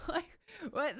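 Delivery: high laugh into a baffled what; disbelieving laugh. Real, not acted.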